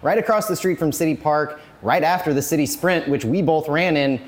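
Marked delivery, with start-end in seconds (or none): 1.8-4.2 slightly out of breath after a run. Real, not acted. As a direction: still catching breath from the race. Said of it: "I'm a little out of breath".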